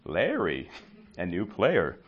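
hushed ooh rising into excited glee; delighted. Retold or imitated. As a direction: start hushed then build up, thrilled by a new player. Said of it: "I'm like".

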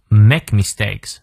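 "make mistakes" slow, both sounds fully sounded; full articulation. Shown as a demonstration. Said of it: "双音念到位". (make mistakes 慢读，双音念到位)

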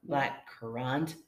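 slow, drawn-out "black currant"; hammed-up seductive wine read; mock sultry. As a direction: purr "black currant" slowly to sound sexy. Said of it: "You said it all weird".

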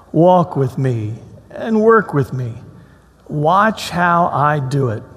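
slow, gentle reading of the passage; slow scripture reading to the congregation. Acted. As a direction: read it like a comforting invitation. Reads scripture aloud slowly.

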